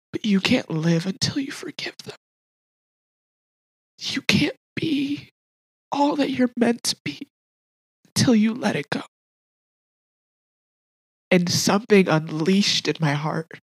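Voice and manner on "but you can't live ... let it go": hushed, earnest urging; gentle divine voice. Retold or imitated. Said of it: "I heard the voice say".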